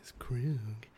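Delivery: slow, soft, unvoiced whisper; sexy whisper. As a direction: whisper the name like a seduction. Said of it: "Why does your sexy voice sound like you're whispering?".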